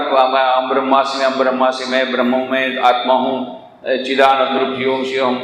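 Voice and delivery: low, level monotone chant; rote recitation. Retold or imitated. Would-be seeker repeating mantras, low rote monotone. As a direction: reel off affirmations on one note. Mimicking rote claims of being Brahman.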